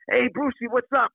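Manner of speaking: lightly voiced fan hailing him across the street; a hint of an eager fan; fan greeting. Fans calling him Brucey.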